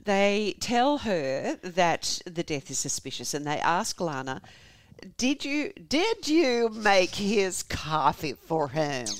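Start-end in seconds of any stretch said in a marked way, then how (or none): 5.2-9.1 drawn-out interrogation question; slow, pointed questioning. Acted. Investigators asking the wife about coffee, slow pointed questioning. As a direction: spell the question out very slowly.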